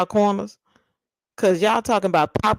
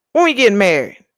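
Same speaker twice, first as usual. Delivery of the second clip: louder, insistent when we getting married; playful demanding repeat; louder eager repeat; 3 semitones higher, 5 dB louder, faster than usual. Pretend. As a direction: push the question harder.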